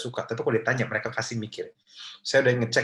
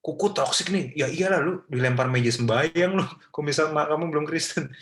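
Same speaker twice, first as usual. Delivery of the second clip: higher, taunting jab at mom; mock rude accusation; 4 semitones higher than usual. Shown as a demonstration. Child accusing mom, higher mock taunt. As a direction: fling the blame like a cheeky kid. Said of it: "Jadi jangan kasih pertanyaan".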